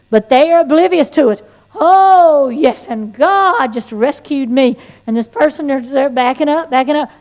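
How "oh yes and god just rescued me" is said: entranced storyteller. Retold or imitated. Oblivious believer gushing testimony at a retreating listener, entranced. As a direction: gush obliviously about being rescued. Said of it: "go into this trance telling their story".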